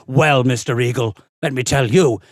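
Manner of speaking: lightly imitated stern teacher's verdict; posh authoritative teacher. Music teacher dismissing a young pupil's future, posh authority. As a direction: pronounce judgement as a posh schoolteacher. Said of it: "very posh, kind of authoritative teacher".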